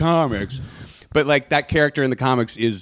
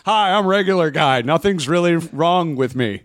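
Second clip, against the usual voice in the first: higher, laughing mock introduction; mock cheerful regular guy; 5 semitones higher than usual. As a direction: introduce yourself with a goofy grin. Voicing Daredevil as regular guy.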